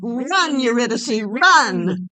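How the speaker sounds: loud urgent shout; shouting a warning. Acted. Warning Eurydice to flee, loud urgent shout. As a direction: yell at her to run.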